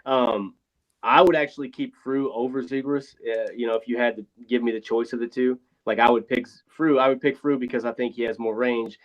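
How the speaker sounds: thin tinny sound, no bass; like talking from a phone booth. Real, not acted. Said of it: "you sound like you're in a phone booth".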